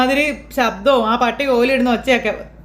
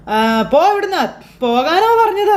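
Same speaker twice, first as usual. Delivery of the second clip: ghostly order; 6 semitones higher than usual. Acted. Ghost prankster shouting the mother away.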